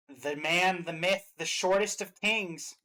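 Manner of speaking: loud, slow, drawn-out hype announcer; grand announcer introduction. Pretend. Host introducing the next character on the list, grand mock announcer. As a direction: stretch the name out like a ring announcer.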